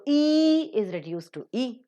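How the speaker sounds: long tense "E", then a short weak "E"; long then weak vowel. Shown as a demonstration. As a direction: stretch the first "E", cut the second "E" short. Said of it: "long or the strong vowels are reduced".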